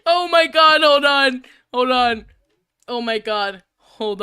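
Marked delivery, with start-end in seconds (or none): none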